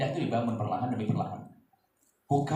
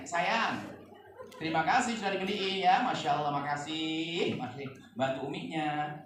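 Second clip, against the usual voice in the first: soft, slow, gentle question; tender mother; 4 dB quieter, slower than usual. Shown as a demonstration. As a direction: ask sweetly, softer and slower. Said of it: "kalau begini tanya". (ibu bertanya lembut pada anak)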